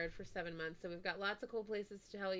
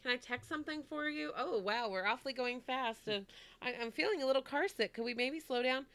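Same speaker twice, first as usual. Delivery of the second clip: gentle coaxing; 4 semitones higher than usual. Retold or imitated.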